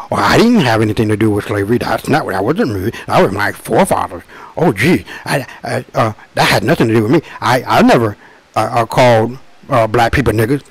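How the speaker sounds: quick, breezy mock denial with fake stammers; mock the shrugging excuse of people brushing it off; nonchalant, dismissive mock. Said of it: "They have a nonchalant, dismissive attitude".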